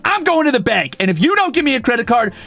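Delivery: high-pitched, worked-up ultimatum; fed up, losing it. Retold or imitated. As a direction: retell a threat at the end of your rope. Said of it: "I'm losing my mind".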